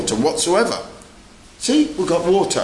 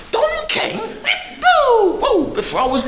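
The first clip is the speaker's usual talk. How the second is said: excited high shout. Real, not acted. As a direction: call it out across the room, thrilled. Calling out to Don King.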